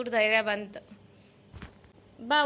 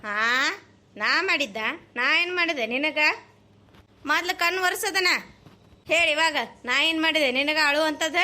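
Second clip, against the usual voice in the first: louder exasperated scolding; 4 dB louder than usual. Acted. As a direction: tell him off, annoyed and loud. Elder sister scolding crying brother. (ಜೋರಾಗಿ ಬೈಯುವ ಅಕ್ಕ)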